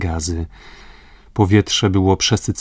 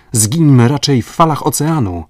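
higher, louder, defiant cry; defiant call; 5 semitones higher, 5 dB louder than usual. Acted. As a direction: rather die than be caught. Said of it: "zawołał".

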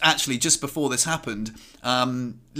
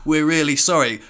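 imitated apology, a little louder; apologetic; 2 semitones higher, 5 dB louder than usual. Three mates apologizing to the car's owner, apologetic. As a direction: act out a mate saying sorry. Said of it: "very apologetically".

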